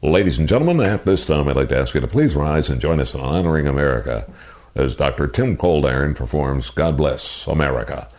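PA announcer impression. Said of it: "I'm gonna do my impersonation of you".

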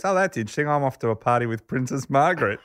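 Miller quoted in a high playful voice; lilting up high as Miller; high mock voice. Telling the host about Miller's party invite, high playful voice.

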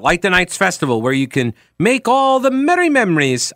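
hammy Irish ad-read; Irish accent. Pretend. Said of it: "I did an Irish accent for that".

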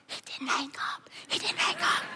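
whispered, thrilled; excited whisper. Retold or imitated. Son whispering to mom that dad stayed on. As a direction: whisper it in disbelief. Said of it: "he's looking at me like".

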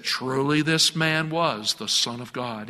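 a hint of John Wayne swagger, low and slow; slow cowboy gravitas, only lightly voiced. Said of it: "that John Wayne accent or swagger".

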